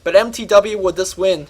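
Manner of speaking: winded after a long shout; out of breath. Real, not acted. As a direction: catch your breath between words. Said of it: "I am completely out of breath".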